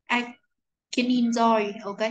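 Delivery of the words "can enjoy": "can enjoy" joined as "ke-ninjoy"; linking demo, no gap in "can enjoy"; linked sounds. Shown as a demonstration. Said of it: "những cái nối âm như sau".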